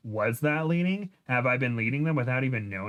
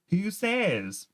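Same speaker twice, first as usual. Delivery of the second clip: higher-pitched hillbilly character voice; 8 semitones higher than usual. A narrator's reading. Dylan objects to Tookie's self-doubt, in hillbilly voice. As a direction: challenge it in a hillbilly accent. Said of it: "in the hillbilly voice".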